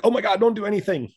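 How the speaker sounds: high, loud panicky outburst; mock panic. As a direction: act out the panicked first instinct. Panicked first instinct acted out.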